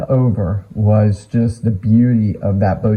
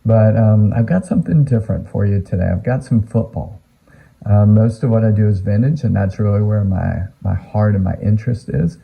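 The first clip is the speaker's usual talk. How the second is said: mouth full. Real, not acted. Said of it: "I've got a cough drop in my mouth".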